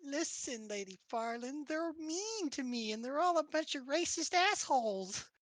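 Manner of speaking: high, wheedling complaint; pleading. Acted. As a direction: plead like a wronged little innocent. Fox character pleads her case.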